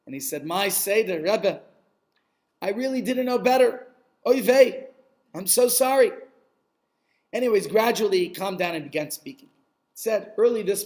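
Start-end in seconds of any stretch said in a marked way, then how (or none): 0.5-6.1 moaning. Acted. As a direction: moan out an apology to the rabbi. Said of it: "there goes Shmerel moaning".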